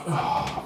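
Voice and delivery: voiceless groan of dread; dismayed sigh. Acted. Cellmate realising what is about to happen, dismayed. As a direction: let out an unvoiced, acted "oh". Dismayed reaction to toilet news.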